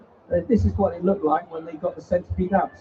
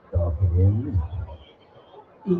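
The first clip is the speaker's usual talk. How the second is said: 1 centipede voice; 9 semitones lower, much slower than usual. Retold or imitated. Centipede inside snake's stomach.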